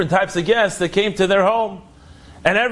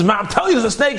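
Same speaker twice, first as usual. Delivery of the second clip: shrieking; 4 semitones higher, faster than usual. Retold or imitated. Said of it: "She was shrieking".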